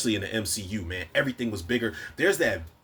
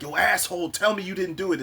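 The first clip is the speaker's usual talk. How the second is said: angry accusation; 8 semitones higher than usual. Retold or imitated. Quill angrily accusing Thanos.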